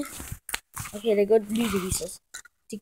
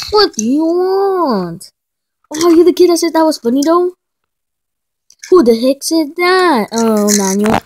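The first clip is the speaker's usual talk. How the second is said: loud, higher, challenging threat; tough kid confrontation; 4 semitones higher, 10 dB louder than usual. Pretend. Bully confronting the kid who laughed, loud and challenging. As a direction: square up and call him out loudly.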